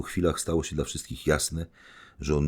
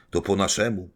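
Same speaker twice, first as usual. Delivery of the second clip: higher, louder exultant cry; shouting; 5 semitones higher, 5 dB louder than usual. Acted. Rogorzyn exulting before everyone, loud and high. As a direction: crow it out in triumph. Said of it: "krzyczał sam".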